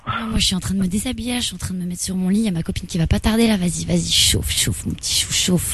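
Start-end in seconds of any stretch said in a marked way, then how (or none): 4.1-5.7 whisper. Pretend. Mock seductive prank call.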